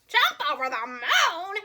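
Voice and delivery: slow, disbelieving hen; incredulous hen. A narrator's reading. Hen repeating the cow's plan, slow and doubtful. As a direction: drag it out in disbelief. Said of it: "repeated the hen".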